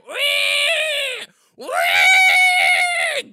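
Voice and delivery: long, very high pig squeal; piercing drawn-out "wee"; mock pig squeal. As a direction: squeal at full volume like a pig. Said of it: "While you're going".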